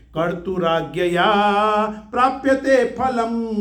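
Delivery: slow, measured chanting of the shloka; verse recitation. Acted. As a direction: recite it slowly, word by word. (ધીમું શ્લોક પઠન)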